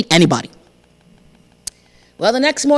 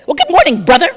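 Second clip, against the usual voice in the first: higher, cheery greeting; chicken greeting; 4 semitones higher, 4 dB louder than usual. Acted. Chicken greets the crocodile again, cheerily. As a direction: sing out a friendly hello. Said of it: "Chicken looked up and said".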